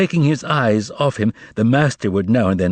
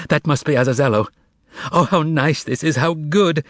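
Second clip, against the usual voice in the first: crying out; 5 semitones higher than usual. A narrator's reading. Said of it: "cried out".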